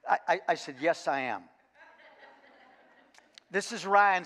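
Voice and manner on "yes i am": laughing through it. Real, not acted. Coach admits pride to his player, laughing.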